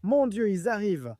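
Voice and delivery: hushed, urgent whisper; whispering while hiding. Pretend. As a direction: keep it down, they're coming. Hiding as carolers arrive.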